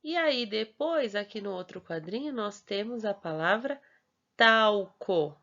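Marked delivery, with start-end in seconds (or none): 4.4-5.4 talco in two parts, tau, then co, louder; added L in first syllable. Shown as a demonstration. Teacher showing the added L, talco in clear syllables. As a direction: sound the L of talco as a U, syllables apart. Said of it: "colocou aqui o L no final da primeira sílaba".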